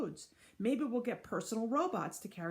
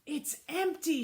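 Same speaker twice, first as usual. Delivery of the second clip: higher, louder cry of empty; shouted; 8 semitones higher, 5 dB louder, slower than usual. Acted. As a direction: shout it in shock. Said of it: "she shouted".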